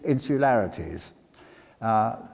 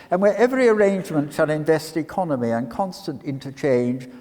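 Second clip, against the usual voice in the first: mock lover's speech; 5 semitones higher, 3 dB louder than usual. Hammed-up reading of suitor's speech.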